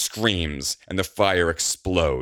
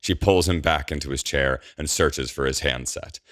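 usual speaking voice

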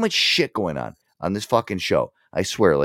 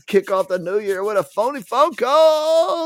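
slow, higher hype-man call; hyped announcement; 13 semitones higher, slower than usual. Real, not acted. Host hyping listeners for the phony call, drawn-out announcer hype. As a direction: stretch it out like an announcer.

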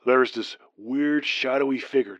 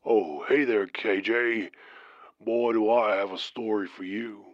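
put-on deep southern accent. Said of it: "he said in his deep southern accent".

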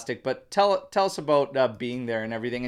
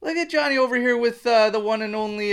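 teasing; 8 semitones higher than usual. Retold or imitated. Teasing about the photo.

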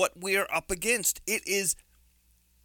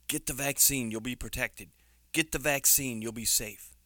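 mock reassurance; 6 semitones lower, 4 dB quieter than usual. Mimicking official reassurance.

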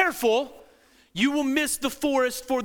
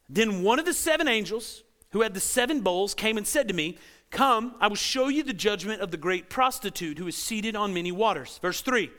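scripture reading. Acted. Reads scripture aloud.

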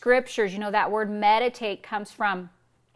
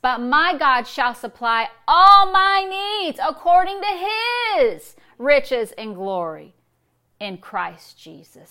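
ALL and HIS climbing high and loud; rising, forceful declaration, settling on "in Christ Jesus"; stress on ALL, HIS; 5 semitones higher, 9 dB louder than usual. Shown as a demonstration. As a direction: push up into "all my needs" and "his", then come down. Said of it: "we're changing the emphasis on every word".

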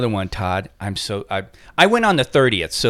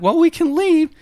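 gentle offer. Retold or imitated. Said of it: "And I'm like".

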